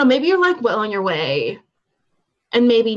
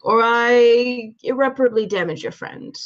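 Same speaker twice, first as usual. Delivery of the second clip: bad heavy Russian accent; 2 semitones higher than usual. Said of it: "in my bad heavy Russian accent".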